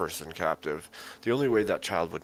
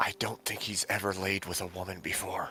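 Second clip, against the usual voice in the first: hushed, quiet whisper; 2 semitones higher, 4 dB quieter than usual. Whispering an aside to Magnus in character: whisper. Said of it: "I'm gonna whisper".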